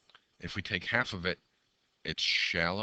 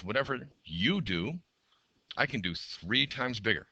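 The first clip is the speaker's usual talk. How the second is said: high, slow, bold machine boast; a proud machine talking, drawn out; 5 semitones higher, 3 dB louder than usual. Acted. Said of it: "The other machine says".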